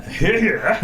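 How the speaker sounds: put-on jokey stab at a British accent; half-hearted British cheer; attempted British accent. Guest playing along with the Queen's English joke, attempted British accent. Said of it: "I can't do a British accent".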